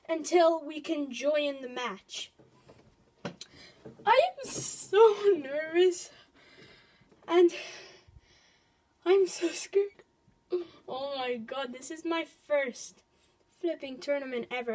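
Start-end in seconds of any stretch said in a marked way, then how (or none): 4.0-10.0 nervous laugh. Real, not acted. Nervous laugh before first tournament.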